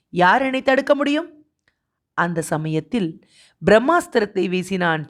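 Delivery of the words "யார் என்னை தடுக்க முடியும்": high, indignant question; defiant challenge. A narrator's reading. Master defies the servant's reproof, indignantly. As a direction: throw down the challenge.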